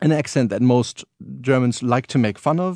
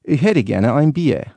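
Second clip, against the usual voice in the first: slow, louder Northern German accent; 4 dB louder, slower than usual. Shown as a demonstration. For the radio host, a slow Northern German accent. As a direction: stretch out the beer order in a Northern German accent. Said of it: "Northern German?".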